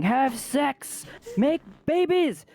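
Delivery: high, frantic street yelling; frantic screaming. Retold or imitated. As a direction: scream it like a crazed man outside at night.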